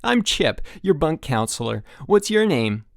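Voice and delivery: high, loud eager counselor; bright bouncy counselor voice; peppy counselor. Acted. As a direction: pump up the new camper.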